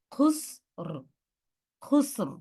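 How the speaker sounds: খুসর, s finished then a short flowing r. Shown as a demonstration. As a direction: let r follow the s in খুসর without pressure. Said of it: "Just flowing sound". (খুসর-এ চাপহীন প্রবাহিত র)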